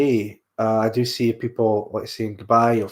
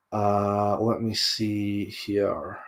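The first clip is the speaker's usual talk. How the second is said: slow, stretched through a yawn; talking mid-yawn; 3 semitones lower, 7 dB quieter, much slower than usual. Real, not acted. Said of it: "I'm just yawning".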